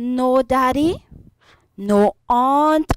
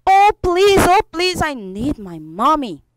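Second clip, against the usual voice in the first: mildly hammed-up begging child; crying plea; 3 semitones higher than usual. Lost boy by the roadside begging for mother, lightly tearful. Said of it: "and he was crying".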